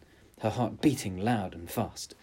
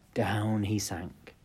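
slow; slower than usual. A narrator's reading. Narrating the frog sinking.

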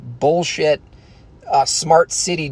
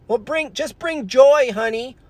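mock mother; 11 semitones higher than usual. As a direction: coo it like a patient mom. Mother answering child.

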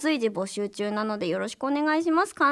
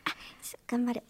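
character voice; 4 semitones lower, 13 dB quieter, faster than usual. Acted. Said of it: "私は今、かやの双葉".

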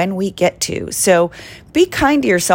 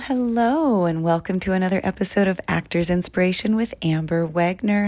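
just woke up, still drowsy; sleepy husky good morning; 4 dB quieter than usual. Real, not acted. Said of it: "so if I sound a little sleepy".

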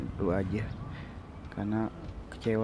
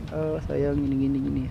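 lightly mocking a cheesy sweet-talker, higher; a hint of an over-the-top lovebird; mushy lovey-dovey; 4 semitones higher than usual. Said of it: "Lebay banget gue bilang". (meniru gombalan lebay dengan nada agak tinggi)

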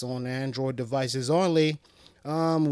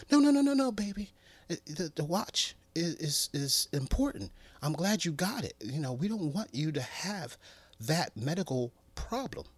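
put-on girlfriend voice; 4 semitones higher than usual. Girlfriend reassuring her man, high sweet voice.

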